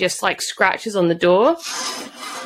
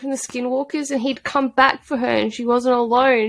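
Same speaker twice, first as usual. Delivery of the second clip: higher-pitched, pleading lament; wounded, higher voice; upset on her behalf; 5 semitones higher than usual. Real, not acted. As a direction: lament it with real sympathy.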